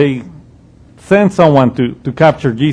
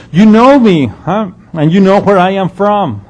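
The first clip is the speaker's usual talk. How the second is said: Jesus mocking the crowd's claim to know him; sarcastic; 3 semitones higher than usual. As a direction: tease them with a knowing huh. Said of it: "that is a sarcastic statement".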